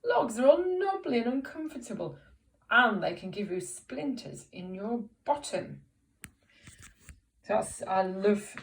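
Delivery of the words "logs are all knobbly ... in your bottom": complaining whine, high at first then settling; whiny frog. Acted. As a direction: moan about it like a reluctant frog. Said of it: "a bit of a whiny voice".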